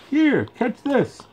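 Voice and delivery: very high, slow call across; yelled call. Acted. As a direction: throw the words across the gap. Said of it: "and yelled".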